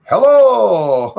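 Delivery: loud, high drawn-out hello; mock talking voice. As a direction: call it out high and stretched, hammed up. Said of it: "talking like".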